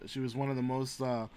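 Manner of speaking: somber. Real, not acted. Tribute to Ginsburg.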